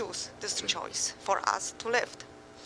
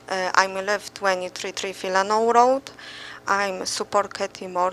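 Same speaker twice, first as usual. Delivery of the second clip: raised voice for the room; to someone hard of hearing; 6 dB louder than usual. Real, not acted. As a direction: project so the back row hears. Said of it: "It's very hard to hear you".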